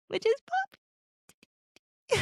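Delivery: slow, high, laughing swoon. Real, not acted. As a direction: melt into a giggle over it. Swooning over a romantic line.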